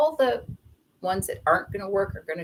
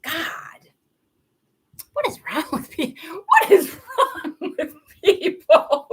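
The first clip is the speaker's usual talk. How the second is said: exasperated; 7 semitones higher, 4 dB louder than usual. Retold or imitated. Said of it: "I'm like".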